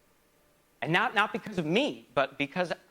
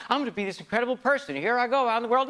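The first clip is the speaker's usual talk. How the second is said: mock naive; 5 semitones higher, faster than usual. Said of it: "just go".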